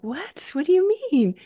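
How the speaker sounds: sudden jump up high and loud on the second what; disbelieving what do you mean; startled question. Retold or imitated. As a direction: caught off guard, demanding to know. Shocked by healer's words.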